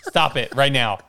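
loud, hammed-up scolding; mock scolding grandma. Grandma telling the boys off, mock yelling. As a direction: order it loudly as a cross grandma. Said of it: "Zach's grandma's screaming".

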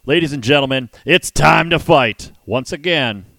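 loud ring announcer call; ring announcer intro. Acted. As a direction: announce it to the arena.

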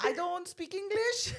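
mock Asian accent. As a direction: play up mom's accent slowly. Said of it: "¿por qué hablas como asiática?".

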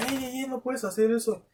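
retold cop's high "hey, hey" protest; imitated police shout. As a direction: call out like an officer stopping someone. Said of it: "la policía de acá grita".

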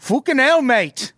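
high, exaggerated British swearing; British accent. Podcaster still clowning as the British-voiced miner, exaggerated British accent. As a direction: curse in a hammed-up British accent. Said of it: "I won't do any more accents".

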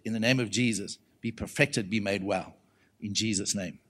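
low, soft prayerful voice; gentle healing prayer. Retold or imitated. Preacher praying over a woman with cancer, low and gentle. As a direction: pray it quietly over someone.

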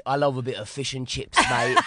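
half-hearted Geordie attempt; bad Geordie accent. Shown as a demonstration. Comedian claims Geordie heritage over fish and chips, bad Geordie accent. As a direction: try a Geordie accent and miss. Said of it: "That's not even the accent".

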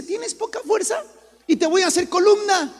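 high, loud booming divine voice; God's voice. Acted. Preacher voicing God to the congregation, booming. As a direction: proclaim it as God would. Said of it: "Porque dice".

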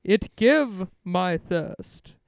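Dracula voice. Pretend. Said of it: "What does Dracula even sound like?".

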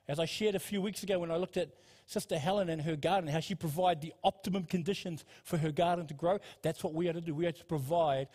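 rushed, run-on preaching; talking too fast. Real, not acted. Preacher rushing through a garden illustration, talking too fast. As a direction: hurry through the explanation without pausing. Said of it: "I'm talking too fast".

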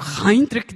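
Heinrich with an emphatic German sound; German pronunciation. Shown as a demonstration. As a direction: hit Heinrich as a German surname. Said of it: "pra pronunciar corretamente".

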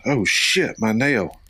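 mock outburst over a small mishap; imitating mom. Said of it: "she goes".

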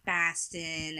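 lightly done Boston vowel; a soft hint of Boston; Boston accent. Shown as a demonstration. Showing the New England sound, Boston accent. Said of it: "Like the Boston accent".

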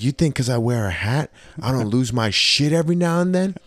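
half-acted fury, pitch climbing; mock outburst. Conductor to passenger, hammed-up angry outburst. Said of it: "I was like".

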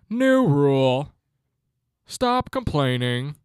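each word laid down slowly; slow decree. Real, not acted. Laying down a rule for listeners, slow and firm. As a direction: announce it like law.

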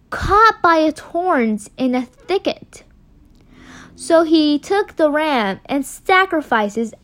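slow, emphatic scripture reading; measured storyteller narration; story reading. A narrator's reading. Reads the story aloud.

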